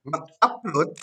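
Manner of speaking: slow, word-by-word dictation. Shown as a demonstration. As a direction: dictate again with long pauses. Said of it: "Salah, salah, salah".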